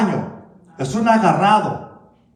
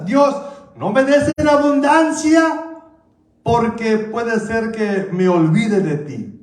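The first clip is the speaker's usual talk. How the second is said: fervent prayer; 3 semitones higher, slower than usual. Retold or imitated. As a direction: cry out to God. Quoting the psalmist's prayer.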